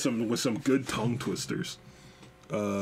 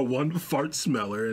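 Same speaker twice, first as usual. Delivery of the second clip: slow mock slip; slower than usual. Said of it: "you go".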